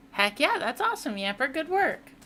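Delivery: excited. Real, not acted. Cheering a chatter's win.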